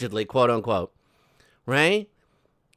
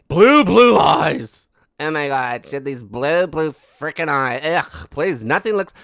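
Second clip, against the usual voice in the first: mock irritated voice; 5 dB louder than usual. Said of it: "she was all irritated about it".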